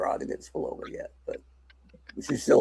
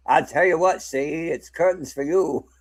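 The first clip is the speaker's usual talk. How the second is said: gangster line; 3 semitones higher than usual. Pretend. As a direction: play a hammed-up mobster. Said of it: "she might have been like".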